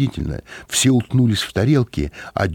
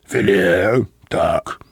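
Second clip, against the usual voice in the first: approving; much slower than usual. A narrator's reading. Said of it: "одобрительно сказал господин Мозес".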